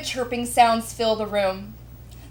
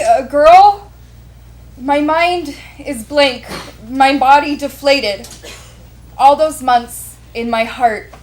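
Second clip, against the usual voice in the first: emphatic, anguished first-person storytelling; dramatic memoir narration; 7 dB louder than usual. A narrator's reading. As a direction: read it aloud with weight, phrase by phrase. Narrates her memoir aloud.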